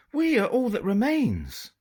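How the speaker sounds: put-on girl faking an English upper-class accent to a pirate. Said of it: "in her best English upper-class accent".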